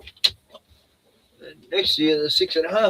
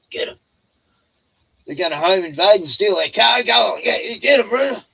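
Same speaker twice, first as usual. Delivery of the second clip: mock sic the dog; 6 semitones higher, 6 dB louder than usual. Mock siccing dog on gangs.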